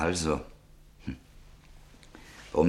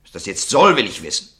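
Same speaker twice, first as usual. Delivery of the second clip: irritated outburst; 4 dB louder than usual. Acted. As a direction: snap back, fed up with the prying. Buyer losing patience with questions.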